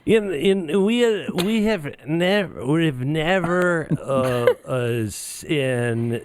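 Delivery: put-on lightly slurred drunk ramble, laughing; half-hearted drunk impression with laughs. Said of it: "let me say it like a drunk instead of Joe Biden".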